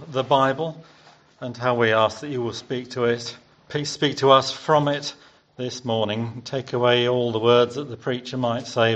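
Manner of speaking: prayer. Real, not acted. Preacher praying before the sermon, sincere and calm. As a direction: pray sincerely to God for the morning.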